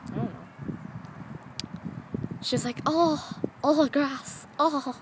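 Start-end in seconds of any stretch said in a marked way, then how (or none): 2.8-4.9 imagined pet's excitement. Pretend. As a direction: play a pet's little oohs of wonder. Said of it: "she looks so excited".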